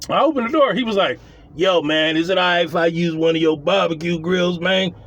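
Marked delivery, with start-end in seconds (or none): 1.5-4.9 light imitation of a worn-out hustler; a hint of an old seventies pimp; broke-down seventies pimp. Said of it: "sounded like a broke down pimp from the seventies".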